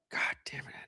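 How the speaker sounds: hushed, breathy whisper under the breath; whispered curse. Real, not acted. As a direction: mutter it as a hidden whisper. Muttered curse at Henry.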